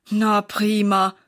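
slow, sarcastic sigh; sighing sarcasm. A narrator's reading. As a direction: drag out a fed-up na prima. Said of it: "seufzt Sarah".

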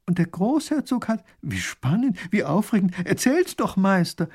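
high, breathless eagerness; lady begs the painter for details; thrilled. Acted. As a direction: gush for the story.

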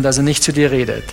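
usual speaking voice

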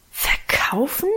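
slow, breathless whisper of shock; the siblings whisper the word back in horror; horrified whisper. Acted. Drawn-out, aghast whisper. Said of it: "raunten und flüsterten wir alle entsetzt".

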